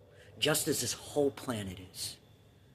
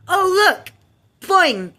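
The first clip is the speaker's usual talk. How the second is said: very high, loud squeal of wonder; delighted child; 17 dB louder, slower than usual. Retold or imitated. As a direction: play a thrilled little kid going boing. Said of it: "It was a".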